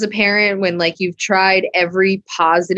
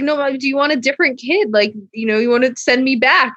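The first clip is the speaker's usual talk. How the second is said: lightly voiced child, higher and quick; small boy pleading; 6 semitones higher, faster than usual. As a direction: plead like a hurt little son. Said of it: "he's like".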